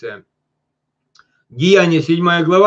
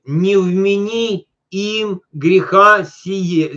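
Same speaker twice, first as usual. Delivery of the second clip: slow prayer reading; 3 semitones higher, much slower than usual. Shown as a demonstration. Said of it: "Обратите внимание".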